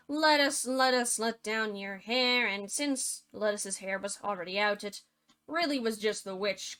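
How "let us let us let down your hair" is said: calling out. Retold or imitated. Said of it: "she called out".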